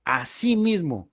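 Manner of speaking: Asimismo drawn out slowly with a firm falling close; stressed word. Shown as a demonstration. Preacher stressing the key word to listeners, Asimismo slow and weighty. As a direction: lean on Asimismo, slow and deliberate. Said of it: "Recalco esta palabra".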